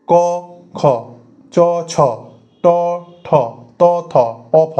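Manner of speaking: each voiceless letter ক খ চ ছ ট ঠ ত থ প ফ said alone and clearly; unvoiced letter demo. Shown as a demonstration. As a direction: spell out ক, খ, চ, ছ, ট, ঠ, ত, থ, প, ফ one by one with no voicing. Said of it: "উচ্চারণটা করুন জোরে জোরে".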